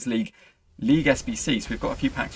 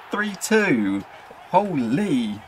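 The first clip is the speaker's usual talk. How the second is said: high, loud disbelief; high, loud thrilled reaction; excited; 5 semitones higher, 4 dB louder, much slower than usual. Real, not acted. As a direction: still buzzing from the goal. Reacting to taking the lead.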